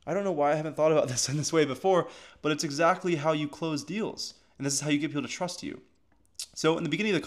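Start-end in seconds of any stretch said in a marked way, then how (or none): none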